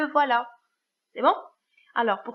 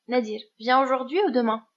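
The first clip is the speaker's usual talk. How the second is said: ou lifted and louder between the two choices; stress on ou; 5 dB louder, faster than usual. Shown as a demonstration. Teacher to pupils showing the choice word, ou stressed. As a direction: lean on ou to show the choice. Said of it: "on utilise ou".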